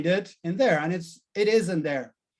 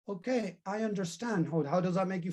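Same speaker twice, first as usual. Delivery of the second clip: soft, gentle reassurance; calm a frightened child softly; reassuring; 6 dB quieter than usual. Pretend. Grown-up Tommy soothing scared little Tommy, soft and gentle.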